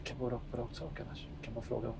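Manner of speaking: very soft, low-volume mumble; hushed aside. Acted. Player wants a private word with Apollo, hushed. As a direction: keep it down, almost whispering. After announcing a whisper.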